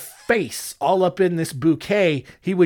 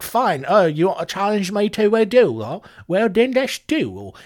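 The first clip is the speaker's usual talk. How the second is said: acted Williams reply; 4 semitones higher than usual. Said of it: "but he was just like".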